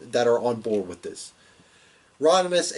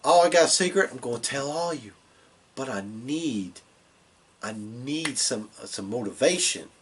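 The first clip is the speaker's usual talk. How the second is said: lightly voiced Bray Wyatt. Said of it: "Anyway, he's just like".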